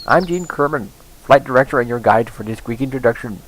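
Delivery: put-on reading the tutorial in an Indian accent; light Indian accent on the guide's lines. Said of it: "Why am I doing this with an Indian accent?".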